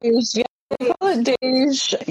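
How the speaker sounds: deej said as one word, "dayzh"; acronym as word. Shown as a demonstration. Guest confirms the acronym for the host, deej pronounced as one word. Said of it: "You can pronounce it however".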